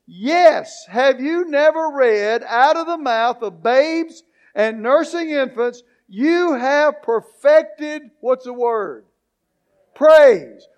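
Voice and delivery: emphatic scripture reading with drawn-out key words; preaching. Real, not acted. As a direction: read it out to the congregation, punching key words. Reads scripture to congregation, quizzing them.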